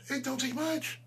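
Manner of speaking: high, sing-song jeer with a rising end; mock-innocent high repeat. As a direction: toss it up high as a taunt. Repeating his line as a taunt.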